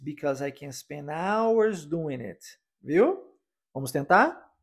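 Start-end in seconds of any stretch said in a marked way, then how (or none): 0.0-2.4 hours lifted and stretched, slow and clear; stress on hours. Shown as a demonstration. Teacher modelling the sentence, stress on hours. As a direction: lean on hours, the rest lighter. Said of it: "a ênfase na palavra hours".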